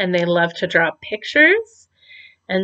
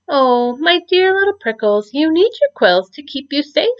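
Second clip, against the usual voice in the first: higher, gentle mother's voice; softly; 6 semitones higher than usual. A narrator's reading. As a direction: soothe him softly like a mama. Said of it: "his mommy said softly".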